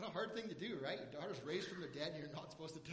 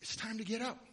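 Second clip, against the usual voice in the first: gentle father; 5 dB louder than usual. Pretend. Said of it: "Jairus every morning said".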